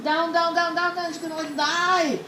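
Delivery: high, rapid repeated words; mock panic. Chicken sinking, told excitedly.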